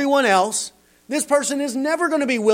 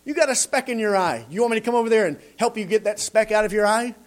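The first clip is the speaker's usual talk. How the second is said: smug busybody; 3 semitones higher, faster than usual. Retold or imitated. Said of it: "he comes and says".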